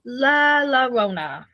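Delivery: La Llorona drawled slowly in a Canadian accent; La Llorona flattened into Canadian vowels. Shown as a demonstration. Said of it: "in my great Canadian accent".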